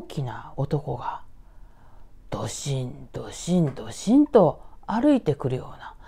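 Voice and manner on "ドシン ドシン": low, heavy thudding steps; imitated heavy footsteps. Storyteller imitating a big man walking closer, low thuds. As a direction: plod out each low thud. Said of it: "体重の重いね".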